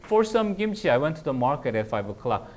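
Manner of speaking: front the phrase and hit "For". Shown as a demonstration. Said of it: "그래서 앞으로 보내요".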